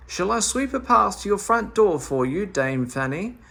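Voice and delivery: a helpful call up to the window, pitched high. Acted. Meddle offers to sweep her path, calling up high. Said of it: "Meddle called to her".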